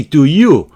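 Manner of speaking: "Do you?" rising; rising tag. Shown as a demonstration. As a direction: lift "Do you?" at the end. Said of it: "이렇게 올리잖아요".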